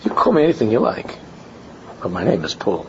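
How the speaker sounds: breezy, unbothered brush-off; mimicking Paul's shrug-off. Rabbi imitating the boy waving off his Hebrew name, lightly amused. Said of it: "The way he said it, it".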